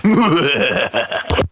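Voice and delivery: cartoon cat laugh; Tom and Jerry laugh. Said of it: "the Tom and Jerry laugh".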